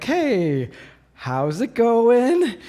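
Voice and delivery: very slow, gentle casual greeting. Retold or imitated. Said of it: "very gently and slowly walking over".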